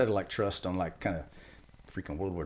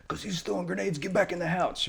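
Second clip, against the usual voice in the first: retold shouted order; 10 semitones higher than usual. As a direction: imitate a Marine ordering a civilian inside. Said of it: "the Marines in great compassion said".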